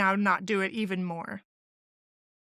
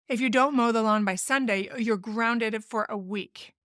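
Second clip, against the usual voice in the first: raised voice threat. Shown as a demonstration. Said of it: "raise your voice or make threats".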